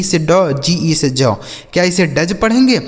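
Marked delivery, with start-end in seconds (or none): 2.1-2.4 "डज" with the d sounded before j; wrong literal reading. Shown as a demonstration. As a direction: sound both d and j in "डज". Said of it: "इसे डज बिल्कुल भी नहीं पढ़ना". ("डज" में ड और ज दोनों बोलकर)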